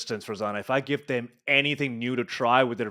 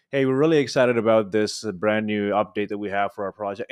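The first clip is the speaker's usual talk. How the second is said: flat, unexcited announcement; 6 semitones lower than usual. Retold or imitated. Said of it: "you're not excited".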